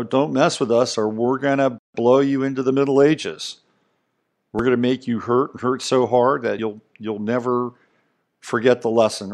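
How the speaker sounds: a hint of a blustering Trump; mock Trump bluster. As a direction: bluster it out like Trump making a threat. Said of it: "Trump says".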